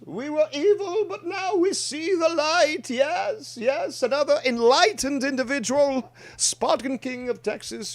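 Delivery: weighty commanding emperor voice. Pretend. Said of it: "I am speaking in the Emperor voice".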